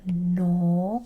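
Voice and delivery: "No" with a small, closed-mouth O. Shown as a demonstration. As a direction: hold a narrow O in "No". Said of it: "close mouth".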